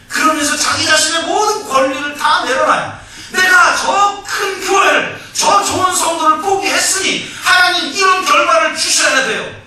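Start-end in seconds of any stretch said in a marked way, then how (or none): 3.3-9.6 hammed-up claim of what God owes him; mock demanding shout. Pastor demanding results from God.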